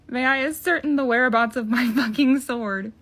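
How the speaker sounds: overly formal request, swear word punched; put-on politeness cracking at the swearing; mock polite. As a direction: ask with exaggerated courtesy, loud on the curse. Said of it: "Could you say it nicer?".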